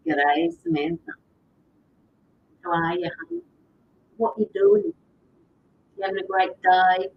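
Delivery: lightly played-up Australian accent; Aussie accent. Shown as a demonstration. Streamer greets a viewer who loves her accent, Australian accent. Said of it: "You love my accent".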